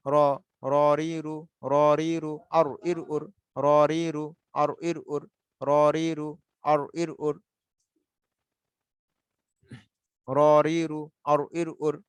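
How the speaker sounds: "র, রি, রু" with the back of the tongue tip on the palate; curled-tongue R. Shown as a demonstration. Teacher drilling after explaining the placement, curled-tongue R. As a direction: turn the tongue tip over for every "র". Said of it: "জিহ্বার আগার উল্টা পিঠ উপরের".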